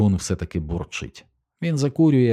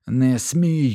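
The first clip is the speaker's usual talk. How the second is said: higher, loud cry of не смій; shouting; 6 semitones higher, 3 dB louder than usual. A narrator's reading. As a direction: yell it at your father. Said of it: "кричить він". (Чико кричить на батька: не смій)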